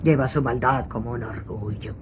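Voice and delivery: soft, mocking echo of her line; imitating her voice. Shown as a demonstration. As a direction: mimic the medium quietly. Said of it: "Pan comido podrá imitarle".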